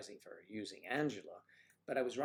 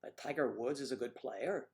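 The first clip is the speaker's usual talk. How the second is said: attempted Irish accent rising at the end; imitated Irish upturn on "player"; Irish lilt. Shown as a demonstration. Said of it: "goes up at the end".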